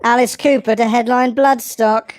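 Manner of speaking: mock newsreader headline, squeaky; news read. Shown as a demonstration. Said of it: "Like, like in the news".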